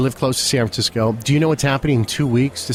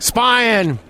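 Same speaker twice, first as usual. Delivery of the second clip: Obama impression; 7 semitones higher than usual. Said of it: "your Obama impression".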